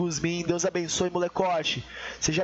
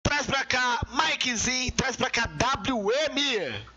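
higher-pitched host call-out with drawn-out names; announcer call-up; 4 semitones higher, slower than usual. Real, not acted. Host calls Mikezinho and W M over, announcer call-up. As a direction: summon the next battlers like an event host.

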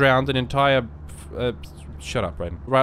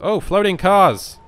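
excited gasp; 7 semitones higher, 7 dB louder, slower than usual. Real, not acted. Marvels at floating cars in game.

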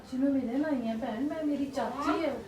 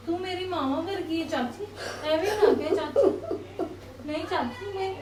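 tearful pleading. Acted. Niece comforts crying aunt.

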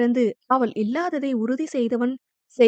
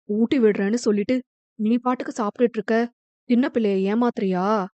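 playful teasing; faster than usual. Acted. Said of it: "ஒரு சின்ன தாயத்தை உருட்டினான்".

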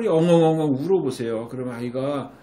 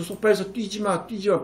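mock yelling; 5 semitones higher than usual. Shown as a demonstration. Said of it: "소리 지르면서".

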